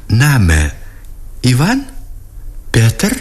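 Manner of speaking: lightly teasing, probing, one name at a time; affectionate, sly questioning. A narrator's reading. Emma guesses the lieutenant's name, gently sly. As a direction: lift each guess playfully. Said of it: "допрашивала с ласковым пытливым лукавством".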